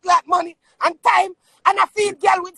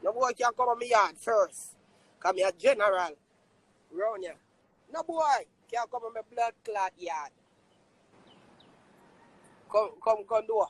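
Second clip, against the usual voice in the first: 1 low menacing warning; 9 semitones lower, 9 dB quieter than usual. Real, not acted.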